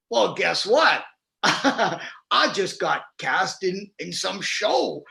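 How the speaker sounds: imitated Missouri drawl, stretched slow; Southern drawl. Carpenter telling students his casting news, imitated Southern drawl. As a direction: play the carpenter's drawn-out Southern announcement. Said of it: "you know, drawl".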